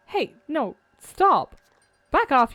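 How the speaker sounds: sharp yell of stop; shouting. Acted. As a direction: shout it to push them away. Fending off creature in game.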